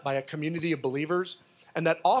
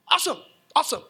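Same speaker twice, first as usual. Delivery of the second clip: mock excitement; 10 semitones higher, 4 dB louder, much faster than usual. Retold reaction, high.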